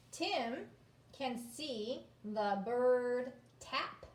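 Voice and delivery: very slow, word by word; slow read-aloud. Shown as a demonstration. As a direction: read it out for beginners. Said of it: "reading the story aloud".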